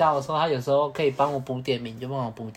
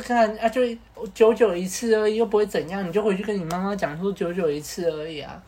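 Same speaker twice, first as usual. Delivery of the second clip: pushy coaxing; 4 semitones higher than usual. Retold or imitated. Coaxing friend again.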